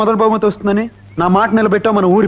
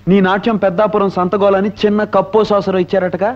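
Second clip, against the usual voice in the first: teasing taunt. Acted. Rival's friend greets the losing dancer, mocking.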